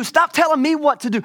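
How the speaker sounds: high, loud mock outburst; acted shout of exasperation; exasperated shout. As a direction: blow up as a fed-up God. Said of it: "He's like".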